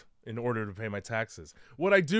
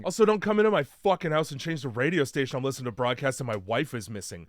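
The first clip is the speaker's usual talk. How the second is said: fast, pushed scolding; hammed-up outrage at an intruder; mock angry rant; faster than usual. Husband telling handyman off over the radio, mock angry.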